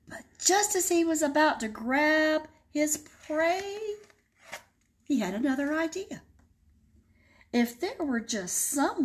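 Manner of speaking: lively read-aloud storytelling voice; story narration. A narrator's reading. Librarian reading to kids, expressive storytelling.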